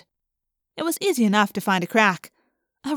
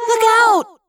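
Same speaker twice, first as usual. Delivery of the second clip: urgent, high yell of warning; shouted warning; 9 semitones higher, 7 dB louder than usual. Acted. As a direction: yell it out as danger strikes.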